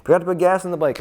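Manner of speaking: very high yell across the pit wall; high mock scream to get someone's attention; imitated screaming. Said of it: "screaming at Muskie".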